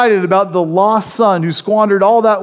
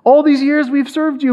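raised, self-satisfied boast; smug Pharisee; 5 semitones higher than usual. Retold or imitated. Preacher mimics proud Pharisees speaking to Jesus, a light smug boast. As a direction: brag about how good you are. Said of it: "who are like".

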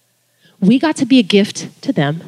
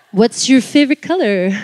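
laughing awkward question. Retold or imitated. Awkward one-on-one small talk.

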